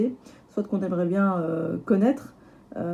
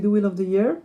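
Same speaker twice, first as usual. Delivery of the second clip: French accent. Real, not acted. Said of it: "j'aime bien comment je le dis avec mon accent".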